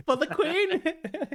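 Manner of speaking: high, drawn-out mock-British cry through laughter; hammed-up royal toast in a British accent. Echoing a British accent clip.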